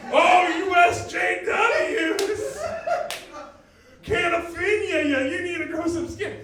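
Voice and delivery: high, loud, dragged-out jeering; whiny mocking rant. Whiny dude jeers at man who corrected him, mocking shout. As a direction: wail it loudly in mock outrage. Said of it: "like, really whiny now".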